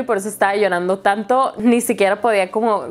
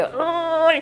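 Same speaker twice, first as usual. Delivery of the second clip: soft pained ay; 7 semitones higher, 3 dB quieter than usual. Retold or imitated. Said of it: "solo me salía ese sonido de que".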